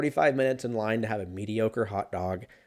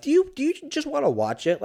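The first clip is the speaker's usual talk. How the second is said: eager pitch. Retold or imitated. Pitching movie to his friend.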